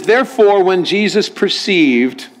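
stuffy, measured formal Bible reading. Acted. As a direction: read it stiffly, drawing out "perceived". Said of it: "just sound more stuffy than that other one".

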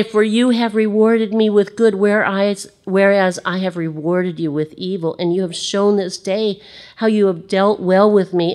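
a broken king admitting his wrong; remorseful Saul. Acted. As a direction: Saul to David, contrite and loud. Saul confessing to David.

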